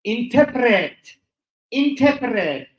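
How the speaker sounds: put-on Russian accent. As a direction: pronounce it with a mock Russian accent. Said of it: "that is a Russian".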